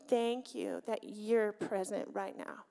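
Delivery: slow, softened words of thanks; quiet thankful prayer. Retold or imitated. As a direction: acknowledge God softly and sincerely. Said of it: "I just acknowledged".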